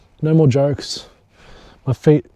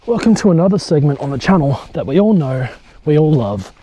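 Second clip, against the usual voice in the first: playfully hyped, louder host intro; show host; 4 semitones higher, 6 dB louder than usual. Pretend. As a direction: announce it like a mock TV segment, pitched up. Mock segment intro for the channel.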